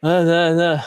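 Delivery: slow, low drone imitating a student; monotone student impression. Coach showing how his student talks, slow monotone imitation. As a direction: drag it out in a mock monotone. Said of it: "That's exactly how he talks".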